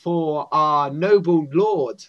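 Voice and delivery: halting mock-formal guard; lightly voiced servant of a lord, searching for words; stuttering goblin guard. Goblin guard questions a visitor, halting formality. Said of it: "you shouldn't be stuttering so much".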